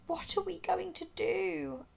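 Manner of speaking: ask, lost and scared; trembling. A narrator's reading. Gasper adrift on the iceberg, trembling and high. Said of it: "asked Gasper, trembling".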